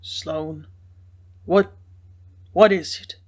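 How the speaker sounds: a voice breaking with emotion; brokenly, softened. A narrator's reading. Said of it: "he said brokenly, with a voice strangely softened".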